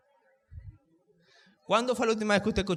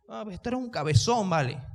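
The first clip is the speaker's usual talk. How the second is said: mocking insult; 3 semitones higher than usual. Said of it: "¿qué hizo ahí? ... una maledicencia".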